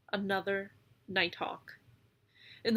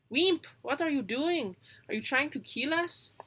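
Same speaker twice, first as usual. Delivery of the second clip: alarmed call; 5 semitones higher, 3 dB louder than usual. A narrator's reading. Willow alarmed at the spinning.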